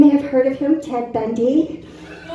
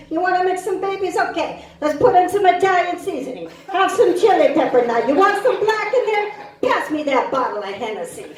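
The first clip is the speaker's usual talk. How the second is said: quick, higher, hammed-up chef patter; mock cooking show host; 5 semitones higher than usual. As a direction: sell the baby recipe like a TV cook. Cooking show bit about babies.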